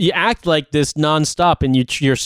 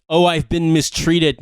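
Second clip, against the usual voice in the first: whiny victim; slower than usual. Retold or imitated. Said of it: "whiny and pathetic veteran".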